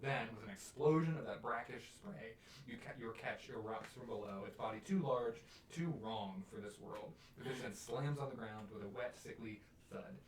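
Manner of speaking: dramatic monster reveal, read as story; game master narration. A narrator's reading. Game master describes the catch to players, dramatic narration. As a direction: narrate the horror with measured weight.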